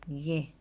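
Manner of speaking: Gue. said as a hard g plus e; Guarani syllable. Shown as a demonstration. A teacher modelling the Guarani letter sound. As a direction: repeat Gue. clearly for pupils. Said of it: "se lee gue".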